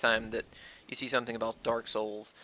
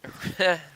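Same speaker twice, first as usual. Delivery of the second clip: short laugh; 5 semitones higher, 4 dB louder than usual. Real, not acted. Laughing at own rant.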